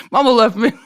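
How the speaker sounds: lightly imitated Southern voice; a hint of a movie Southerner; Forrest Gump. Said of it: "You just turn into Forrest Gump".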